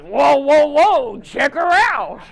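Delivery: loud, high whooping catcall, acted out; imitated hollering. Husband with dementia spots a girl jogging by, mock hollering. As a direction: holler it like an uninhibited man, drawing out the end. Frank hollers at a passing jogger.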